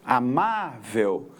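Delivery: slow "amável", stretching the "má"; "amável" by syllables, long stressed "má"; stress on penultimate syllable. Shown as a demonstration. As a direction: draw out the middle "má" of "amável". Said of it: "está na penúltima".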